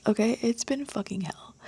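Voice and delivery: breathy whisper of the curse. Real, not acted. Confiding to viewers about the weekend, whispered. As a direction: hush it to a whisper.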